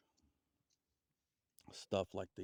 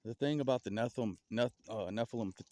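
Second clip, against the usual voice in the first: stammering over the words; stuttering; 2 semitones higher, 5 dB louder than usual. Real, not acted. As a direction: trip over the word Nephilim. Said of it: "sorry for all the stuttering".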